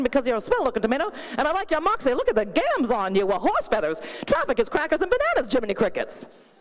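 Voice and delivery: 1940s femme fatale, fast and snappy. Retold or imitated. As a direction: purr it like a forties film siren. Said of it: "sounds like a femme fatale from the nineteen forties".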